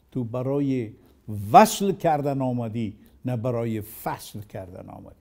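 fast Persian couplet recited in one rush; Persian verse recital. Acted. Teacher quoting God's rebuke in Rumi's verse, rapid recital. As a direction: rattle off the couplet quickly.

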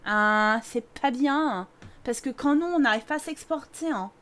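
put-on light Marseille accent with tagged-on hein; mock Marseille accent. Streamer teasing a Marseille viewer, mock Marseille accent. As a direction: tease in a hint of Marseille twang, hein. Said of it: "J'en peux plus l'accent marseillais".

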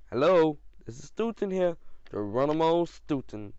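mild squeak answering the phone; slightly squeaky phone greeting. A narrator's reading. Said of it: "I squeaked".

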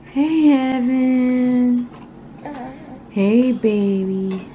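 slow, drawn-out cooing call. Real, not acted. Parent says hello to the baby, cooing slowly.

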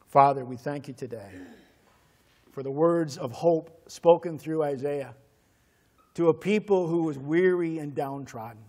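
steady earnest pastor's prayer. Acted. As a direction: pray it over the congregation. Closing prayer over music.

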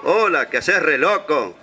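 a hint of a drawn-out celebrity voice; Susana Jiménez drawl. Talking sheep greets the ram, lightly imitated drawling diva. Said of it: "hablaba como tipo Susana Jiménez".

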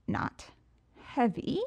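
high, cocky villain voice; Riddler voice. Acted. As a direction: play the smug showman. Riddler asks, puzzled.

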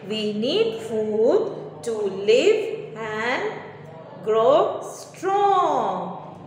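very slow answer split into chunks; slow dictation. Shown as a demonstration. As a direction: pause before grow strong for copying. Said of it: "So the answer is".

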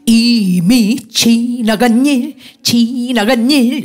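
지나간 일 sung slow, long then short; long-short rhythm. Shown as a demonstration. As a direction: stretch 지나간 and clip 일. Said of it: "길고 짧고".

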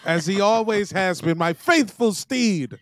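warm regal boom. Acted. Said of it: "jolly old King Winchellus".

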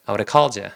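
"I would have called you" as "ah-woo-reh-call-jya"; low, run-together "I would have called you", D tapped; easy linked pronunciation. Shown as a demonstration. Teacher showing the finished phrase, fully linked and reduced. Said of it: "이렇게 됩니다".

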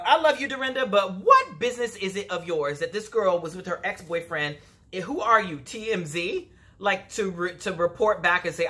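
exasperated challenge, acted out; indignant comeback.

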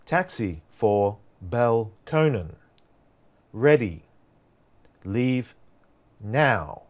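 slow, even robot voice. Retold or imitated. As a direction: speak like an automated system. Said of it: "So I would use my robot voice".

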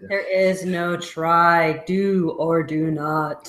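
slow wise master voice. Acted. Quoting a wise master line.

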